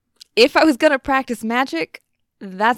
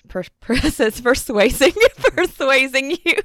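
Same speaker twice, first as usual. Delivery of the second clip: laughing through words; 4 semitones higher, 4 dB louder than usual. Real, not acted. Laughs at her own flub.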